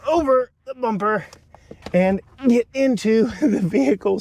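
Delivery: grunting while climbing in; strained, grunting as you climb; effort grunt. Real, not acted. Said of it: "Sorry for all the grunting".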